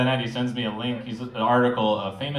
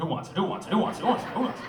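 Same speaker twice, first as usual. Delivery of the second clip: vendor call; 9 semitones higher, faster than usual. Pretend. Hawking secrets like a vendor.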